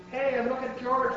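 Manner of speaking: high, excited storybook shout; boy's shout. A narrator's reading. Boy to classmates at museum, high shout. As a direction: call out high to point something out. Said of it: "he shouted".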